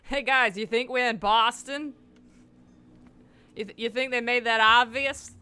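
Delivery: loud teasing call-out; yelling. Real, not acted. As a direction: shout it at the screen. Yelling at game characters.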